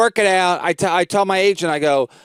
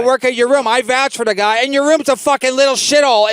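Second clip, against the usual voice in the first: higher-pitched, worked-up protest; retold indignant argument; 5 semitones higher than usual. Comic arguing with club owner over his show, indignant. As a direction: argue it heatedly, retelling the row.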